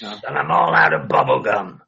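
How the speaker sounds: lightly shifted wrestler voice; deep pitch shifted. Retold or imitated. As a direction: keep the voice changer tone. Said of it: "voice changer".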